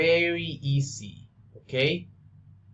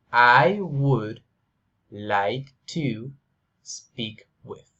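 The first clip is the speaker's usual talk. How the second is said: I would / like to / speak with, said slowly in chunks; slow chunked model; 4 dB louder, slower than usual. Shown as a demonstration. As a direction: break it into slow pieces for the student. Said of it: "Listen, listen".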